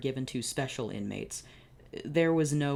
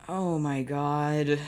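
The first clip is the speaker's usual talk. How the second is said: shocked; 5 dB louder, much slower than usual. Real, not acted. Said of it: "reader reacts to story".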